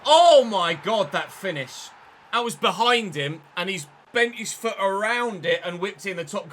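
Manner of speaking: real amazement at a stunning finish; amazed outburst. Real, not acted. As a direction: gasp at the wonder goal. Marvels at opponent's great goal.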